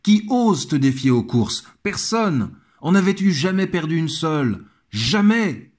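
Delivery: butter up the emperor, voice lifted; reading Pétrone's flattery. Retold or imitated. Pétrone flattering Nero, a courtier's lifted, coaxing voice. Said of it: "Il lui dit".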